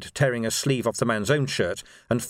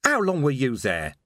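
mildly demanding question; a touch of challenge; 3 semitones higher than usual. Acted. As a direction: demand an answer from the intruder. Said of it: "he demanded".

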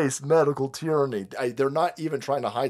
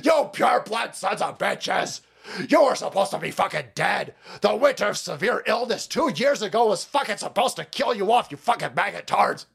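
mock rant; 4 semitones higher than usual. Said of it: "They're sitting there going".

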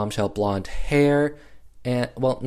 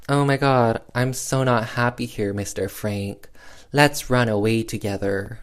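Cora voice. Retold or imitated. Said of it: "why am I doing that voice?".

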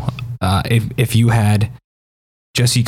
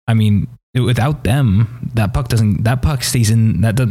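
too excited to talk. Real, not acted. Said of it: "I'm too excited to talk normally".

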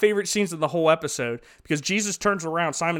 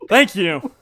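louder, mock-delighted exclaiming; impressed guest; 5 dB louder, slower than usual. Wedding guest raving over cheap grape juice, mock delight. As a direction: play up being impressed by the juice.

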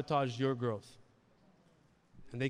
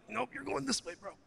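high, breezy "nope, bro" voice; God waving off your plans, high and breezy; casual God; 9 semitones higher, 5 dB quieter than usual. Retold or imitated. God casually overruling a believer's plan, high and breezy.

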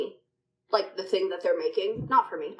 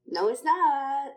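slow mock disbelief; 6 semitones higher, much slower than usual. Real, not acted.

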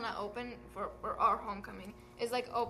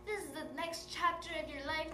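lightly voiced teacher; a hint of a lecturing teacher; english teacher; 4 semitones higher, 3 dB quieter than usual. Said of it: "I sound like an English teacher".

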